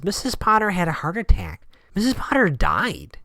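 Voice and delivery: hint of a shaken assistant breaking bad news; retold assistant's announcement.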